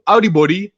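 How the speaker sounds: Audi body with ow sound, rise on Audi; Krio greeting. Shown as a demonstration. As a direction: start Audi like ow, then body. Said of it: "it's not how, it's ow".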